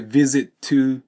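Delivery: "visit to" slow, short pause yet linked T; slow liaison. Shown as a demonstration. Teacher shows liaison with slight pause, slowly. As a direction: hold a beat but keep the T joined. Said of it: "間を置きながらもリエゾンする".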